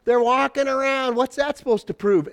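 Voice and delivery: mock the marchers like a heckler on the wall; mocking enemy. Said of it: "throwing pop cans and hitting them in the head and go".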